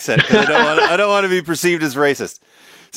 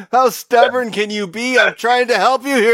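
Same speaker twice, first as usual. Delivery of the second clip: exasperated; 6 semitones higher than usual. Retold or imitated. Retold waiter scolding a stubborn customer.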